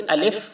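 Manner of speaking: الف with an e, "alef"; the rejected reading of الف, "a-LEF"; مجہول pronunciation. Shown as a demonstration. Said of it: "نہیں پڑھا گیا ہے". (الف کو مجہول، "الیف" جیسا)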